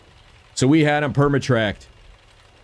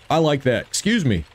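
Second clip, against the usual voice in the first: hiccups. Real, not acted. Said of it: "I got the hiccups".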